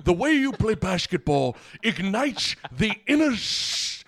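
slow, sappy fan letter voice; overly gushing letter. Pretend. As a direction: read it like a sappy love note. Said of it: "your response be like".

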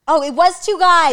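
loud, high, drawn-out realisation; excited, stretched-out correction; sudden recollection. Real, not acted. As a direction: exclaim it as the memory clicks. Corrected by co-host, recalls suddenly.

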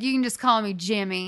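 put-on a mild Southern accent on You can just call me Jimmy; lightly voiced Southern woman. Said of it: "She was, like, Southern".

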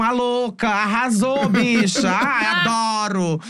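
gritinho agudo e afetado de bicha; drag queen exagerada. Retold or imitated. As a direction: exagera na afetação, esticando o "adoro". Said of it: "Eles são acostumados com". (bicha afetada e escandalosa)

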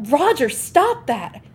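acted shout to stop someone; retold yell. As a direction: yell it out in protest, slowly. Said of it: "and I yell".

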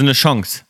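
Chance as "schongs", audible NG; NG pronunciation. Shown as a demonstration. Showing how many people say it, Chance with NG. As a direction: say Chance with O and hard NG. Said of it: "die wirklich auch sagen N G".

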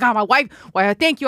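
high, mock-despairing whine about his wife; whining funeral director. Funeral director dreading his wife, high mock whine. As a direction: moan it like a doomed little husband. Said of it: "he's just like".

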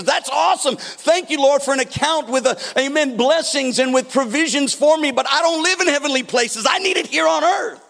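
mock thanks turning to exasperated plea; acted pleading believer. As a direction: protest to God with growing urgency. Acts believer protesting to God.

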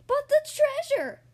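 very high, loud, slow wail; drawn-out high pirate shout; hollering. A narrator's reading. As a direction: holler it in dismay.

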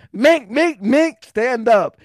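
loud slow high taunt; yelling taunt. Retold or imitated. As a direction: bark it down at him. Retold taunt in the fight.

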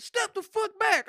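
loud, high, slow and forceful; retold angry order. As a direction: lean hard on every word. Quotes agent shouting again.

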